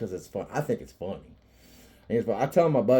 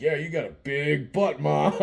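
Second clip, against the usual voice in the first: teasing with a laugh; raised, laughing jab at mom; playful banter; 4 semitones higher than usual. Retold or imitated. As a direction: rib her playfully. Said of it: "it's just playful banter".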